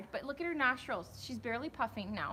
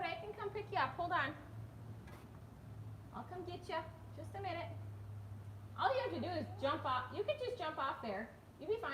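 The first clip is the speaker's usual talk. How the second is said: mother coaxing stuck son; 6 semitones higher, 6 dB quieter, faster than usual. Real, not acted.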